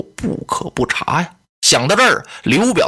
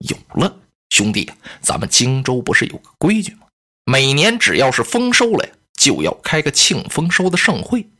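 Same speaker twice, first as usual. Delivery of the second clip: lower, a hint of sly plotting; scheming lady; 4 semitones lower than usual. Lady Cai tells Cai Mao of the harvest feast, lower and sly.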